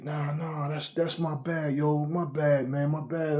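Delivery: apologetic friend. Retold or imitated. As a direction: imitate a friend hastily backing down, voice kept small. Retold friend repeating his apology.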